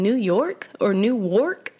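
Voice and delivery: New York set against Newark, "new YORK or new WORK"; contrasting pronunciations. Shown as a demonstration. Co-host checks what was said, contrasting the pronunciations. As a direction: spell out by ear "New York" versus "Newark" with a clear W. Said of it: "It sounds like you're saying".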